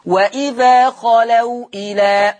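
slow Quranic recitation of وإذا خلوا إلى. Shown as a demonstration. Teacher recites the example for students. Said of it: "لاحظ معي النطق بالأمثلة الآتية".

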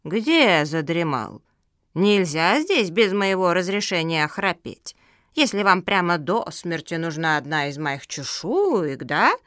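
slow, drawn-out scolding; grumpy old tortoise. Acted.

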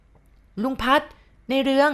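high, drawn-out woman's call; calling out clearly. A narrator's reading. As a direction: call slowly through the wall from outside. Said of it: "เสียงนั้นเรียก แต่ว่าดังชัดเจน". (เสียงผู้หญิงร้องเรียกลากเสียงสูง)

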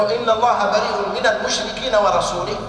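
ورسوله read with kasra, wa-rasulihi; the faulty -li ending on ورسوله; genitive misreading. Shown as a demonstration. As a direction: say ورسوله with an i after the lam. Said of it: "صار العطف على المشركين".

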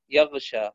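يغشى with voiced gh before sh; true ghayn. Shown as a demonstration. Teacher repeating correct example, يغشى with voiced ghayn. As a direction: keep voice in the gh of يغشى. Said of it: "يبدل الغين خاء".

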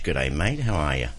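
a jokey Aussie "G'day" to greet the guest; mock Aussie accent. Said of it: "Don't ask me why I always do that accent".

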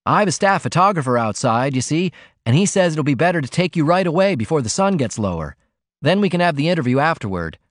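put-on a quick, polite request from a young reporter; cub reporter. Cub reporter explains his plan.

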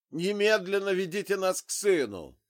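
loud, high, stress on немедленно; furious demand. A narrator's reading. Armed father orders Zig to take them to his son, furious shout. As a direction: order it at gunpoint.

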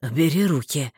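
low, clearly spoken order; understated male objection; distinct. A narrator's reading. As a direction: say it deep and clearly. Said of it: "вполне внятно произнёс Марстон".

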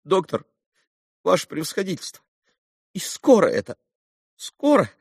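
high, anxious begging; voiced as a frightened father; pleading captain. A narrator's reading. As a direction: press the doctor for an answer.

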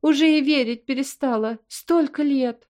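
mother crying over long-awaited news; tearful. A narrator's reading. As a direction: let the tears stretch the words. Mother in tears of joy.

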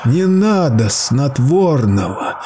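high, slow, rising wail of please; terrified sobbing plea; desperate begging cries. Acted. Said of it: "кричал Сейл".

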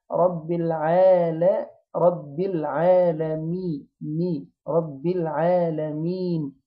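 slow العالمين with a clear long "mee"; drawn-out recitation, clear i after the m of العالمين; emphasised kasra on mim. Shown as a demonstration. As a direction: build رب العالمين syllable by syllable to a distinct "mi". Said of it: "نأكد الكسرة بتاعتها".

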